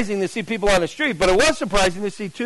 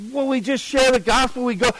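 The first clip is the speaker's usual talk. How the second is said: higher, mildly flustered explanation; nervous retold excuse; 5 semitones higher than usual. Evangelist in the alley explains himself, mildly nervous. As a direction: explain yourself with a touch of nerves. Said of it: "He was so nervous".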